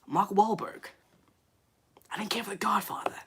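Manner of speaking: fast whispered Boston-tinged voice; Mark Wahlberg impression. Streamer mimics an actor saying he didn't like the film in a whispered Boston voice. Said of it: "He sounds like Mark Wahlberg".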